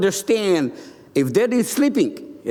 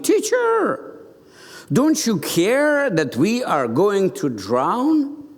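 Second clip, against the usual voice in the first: mock shout; slower than usual. Preacher voices panicking disciples waking Jesus, mock shout. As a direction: call out to wake the teacher, drawn out.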